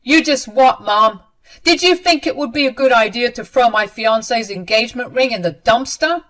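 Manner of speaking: loud, angry interrogation; hard voice. A narrator's reading. Son confronting his mother over the ring, hard and angry. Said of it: "Mason talked to her in a hard voice".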